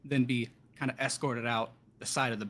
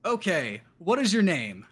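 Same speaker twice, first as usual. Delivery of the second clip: possessed clerk; 5 semitones higher, 6 dB louder, slower than usual. Acted.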